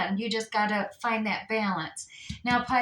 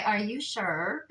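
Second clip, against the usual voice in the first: weird devil voice; slower than usual. Retold or imitated. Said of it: "getting that weird voice from".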